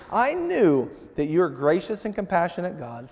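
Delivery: resentful complaint. Retold or imitated. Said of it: "and just the tone".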